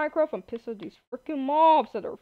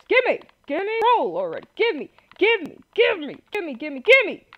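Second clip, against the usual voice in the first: impatient demand; 5 semitones higher than usual. Real, not acted. Frantically grabbing back items.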